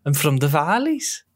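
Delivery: slow warm-up line, Welsh valleys accent. Shown as a demonstration. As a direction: ease into a Welsh valleys lilt. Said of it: "what is your Welsh preparation line".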